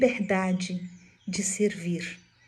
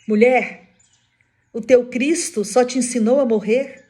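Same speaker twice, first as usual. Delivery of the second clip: loud, raised, confronting question; challenging demand; 3 semitones higher, 7 dB louder than usual. Retold or imitated. Executioner challenges the burning woman, acted loud challenge. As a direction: throw the question at them forcefully.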